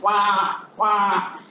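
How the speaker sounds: lightly imitated crow cawing. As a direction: mimic a crow's caw in passing. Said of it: "a crow that's going like".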